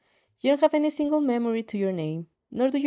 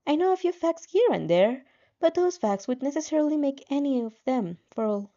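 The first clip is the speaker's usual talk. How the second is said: a lightly voiced game system, a touch higher; 4 semitones higher than usual. Heroine and system discussing, lightly voiced helper. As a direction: voice the helper system, slightly raised and calm.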